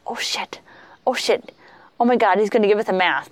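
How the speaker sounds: hushed alarmed whisper, fast at the end; panicked whisper. Retold or imitated. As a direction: whisper in a rush so the host won't hear. Panicked aside as gift arrives.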